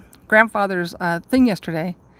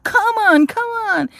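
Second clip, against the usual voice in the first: rising higher and louder, losing patience; impatient cursing; 6 semitones higher, 3 dB louder than usual. Retold or imitated. Stuck in the bathroom line, growing impatient and louder. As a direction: build from grumble to a high come on. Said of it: "and you're like".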